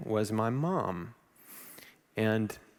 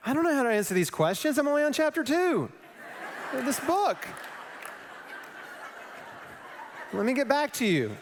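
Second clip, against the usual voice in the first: much higher, fast flustered protest; 10 semitones higher than usual. Retold or imitated. Cornered by questions, high and flustered. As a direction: blurt it out, overwhelmed and laughing. His flustered reply to doubters.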